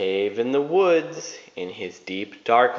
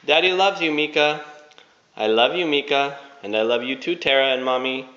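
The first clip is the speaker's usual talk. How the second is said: loving goodbye; 4 semitones higher, much faster than usual. Real, not acted. Father's message to child.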